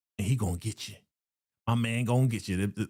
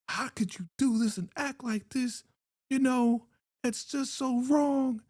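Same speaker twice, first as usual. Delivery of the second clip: mock outrage; 12 semitones higher than usual. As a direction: squeal the scolding in a high voice. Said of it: "She's like".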